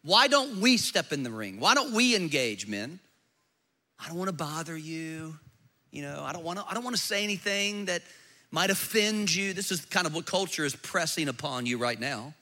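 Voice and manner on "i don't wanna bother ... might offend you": softer, hesitant mock of a man afraid to offend; timid passive man. Mocking passive men to the congregation, soft and timid. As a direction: shrink back like a man scared to bother anyone.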